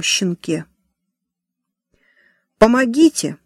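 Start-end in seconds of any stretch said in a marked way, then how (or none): 2.6-3.4 shout for help. A narrator's reading. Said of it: "опять кричала Эми".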